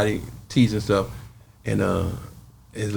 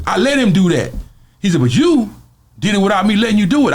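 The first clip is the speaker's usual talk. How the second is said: Debo's voice; 7 semitones higher, 3 dB louder than usual. Retold or imitated. Debo conceding.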